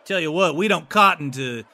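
lightly voiced small-town lawman; a hint of a folksy city guard. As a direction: deliver a mild, measured reproach.

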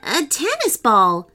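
a firm, flat reply that falls at the end; insist, no nonsense; mildly stern girl setting him straight. Acted. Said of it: "Sophia said sternly".

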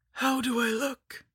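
high, slow crone voice; preening lich. A narrator's reading. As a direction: show off like a vain hag. Lich shows herself.

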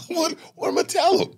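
mock protest. Funny kid pulled into a room, high incredulous protest. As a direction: play the reluctant funny kid. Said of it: "You're like".

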